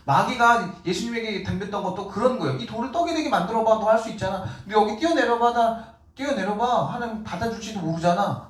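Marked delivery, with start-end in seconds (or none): 2.6-8.5 higher, teasing devil tempting Jesus; mocking taunt. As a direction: goad him like a smug tempter. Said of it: "이렇게 깐죽거렸잖아요". (마귀가 예수님을 깐죽거리며 시험하듯)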